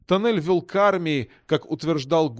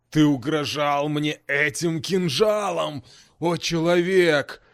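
slow, heavy, sneering demon; heavy mocking demon voice; slower than usual. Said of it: "Громовой голос был тяжёлым и едким от насмешки".

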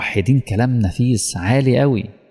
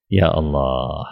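hushed lowered sigh to the congregation; sighing lament; 6 semitones lower, much slower than usual. Real, not acted. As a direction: let it out as a low sigh of awe. Sermon, sighing exclamation.

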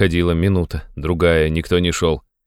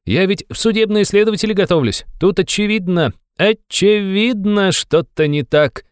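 put-on high, fervent young man, slowing for emphasis; heated cry; 13 semitones higher than usual. A narrator's reading. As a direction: insist hotly, stretching the last words. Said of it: "горячо вскричал молодой человек". (горячо, высоким молодым голосом)

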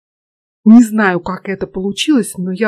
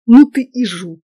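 drawled reproach; 2 semitones higher, 6 dB louder than usual. A narrator's reading. Girl to the student after his jab, drawling reproach. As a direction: stretch the words out in mock reproach. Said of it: "протянула она".

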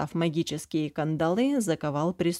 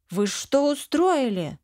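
higher, slow, shouted outrage; frantic shout; 7 semitones higher, slower than usual. A narrator's reading. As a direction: yell at them in alarm. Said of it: "закричала не своим голосом". (возмущённый крик)

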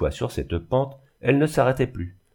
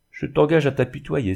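higher, mildly raised exclamation; 6 semitones higher, 4 dB louder than usual. A narrator's reading. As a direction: cry it out lightly, pitched up. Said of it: "s'écria Reine". (exclamation moqueuse)

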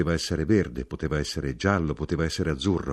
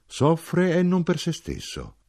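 voce molto alta e lenta; enfatico; 11 semitones higher, 3 dB louder, slower than usual. A narrator's reading. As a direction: scandisci lentamente, in alto. Ezechiele spiega con enfasi il dolore. (enfasi lenta e acuta)

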